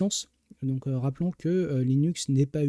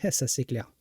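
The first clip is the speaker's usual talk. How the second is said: laughing. Real, not acted. Chuckling reply to a chat remark.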